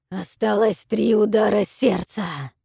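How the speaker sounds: loud, slow booming dragon command; deafening dragon roar. A narrator's reading. Dragon orders the captives to kneel, booming roar. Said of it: "проревел дракон".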